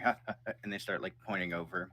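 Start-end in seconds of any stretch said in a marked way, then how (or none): 0.0-0.5 jeering ha ha ha; taunting laugh, a bit louder; mocking laugh. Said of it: "they start going".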